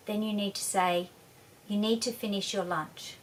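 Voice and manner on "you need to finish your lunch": steady, level and a little softer; firm but unruffled, no reaction; calm, even voice. Shown as a demonstration. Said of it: "a very calm, even voice".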